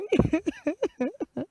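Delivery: high-pitched fake boo-hoo sobs; comic storybook wailing; mock crying. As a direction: cry in short, silly high bursts. Fox... crying heard, story character cries.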